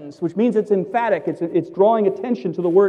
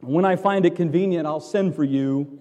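mock nervous governor; 4 dB louder than usual. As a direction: lightly play the governor cutting Paul off. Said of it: "Felix the governor was afraid and said".

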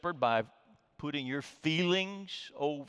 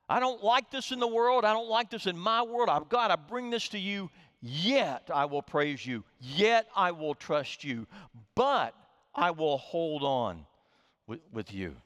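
lament turning to trust; 3 semitones higher than usual. Pretend. A psalmist complaining, then choosing to trust God. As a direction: cry out, then turn on "yet". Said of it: "the word "yet".

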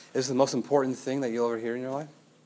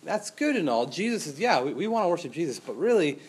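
smooth legalist persuading. Acted. False teacher voiced persuading church.

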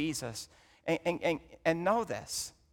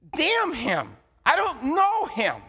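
loud, high, bitter denial; Peter's curse; 10 semitones higher, 4 dB louder, slower than usual. Retold or imitated. Peter cursing, denying Jesus.

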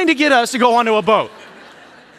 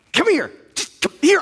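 urgent coaxing; 7 semitones higher than usual. Retold or imitated. Father coaxing son away from snake.

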